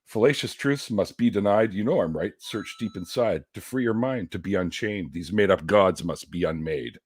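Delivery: rhythmic spoken-word recitation of a song; song lyrics recited. Acted. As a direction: deliver the verse like a poem. Recites second verse.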